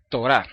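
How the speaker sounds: Torah, the T said as a hard stop; Torah with dagesh. Shown as a demonstration. Teacher demonstrating Hebrew Torah to the class. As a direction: say Torah with a crisp T. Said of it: "para que se diga".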